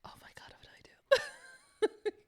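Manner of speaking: high, squeaky half-whisper; giddy panic. Real, not acted. Player unsure what they just did, squeaking in giddy panic. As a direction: squeak it out slowly, verging on laughter.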